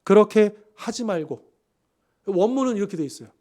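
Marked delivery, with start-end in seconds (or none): 0.0-1.5 slow, resolute refusal; slow emphatic no; firm. Acted. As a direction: lay it down flatly, slowly. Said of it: "이렇게 단호하게 말합니다".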